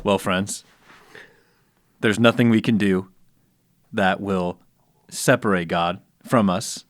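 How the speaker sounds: hushed, low golf announcer; slow broadcaster homily, pausing between short phrases; Jim Nantz. Acted. Co-host expounds the verse as a golf announcer, slow and low. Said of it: "you answer it in your best one".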